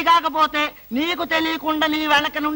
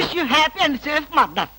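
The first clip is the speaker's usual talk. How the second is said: drawn-out farewell; much slower than usual. Acted. Lawyer's mock farewell.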